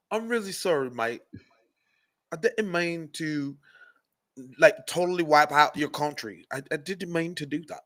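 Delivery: soft mock British "really sorry"; quiet mock British apology; softly muttered mock British accent. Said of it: "so it's gonna go like this".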